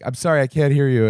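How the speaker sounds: lightly acted confused apology; puzzled bartender. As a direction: politely ask a customer to repeat. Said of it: "he's like".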